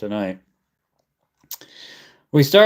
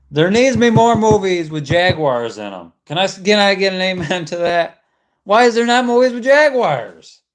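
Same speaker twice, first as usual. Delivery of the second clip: ranting, building to a shout; 5 semitones higher than usual. Real, not acted. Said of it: "I'm gonna go on a rant".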